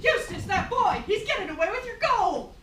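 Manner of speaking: high loud alarmed cry with laughter; alarmed shout. Acted. Wife screams to the giant that Jack has the gold. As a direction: raise the alarm.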